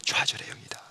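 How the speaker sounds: 좌절의 영이다 whispered without voice. Shown as a demonstration. Preacher repeats the spirit's name to the congregation in a hushed whisper. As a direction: breathe 좌절의 영이다 like a secret. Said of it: "repeated as whisper".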